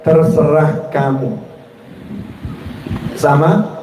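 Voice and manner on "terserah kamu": terserah kamu. Shown as a demonstration. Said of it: "Coba kalimat ini ya, rasakan".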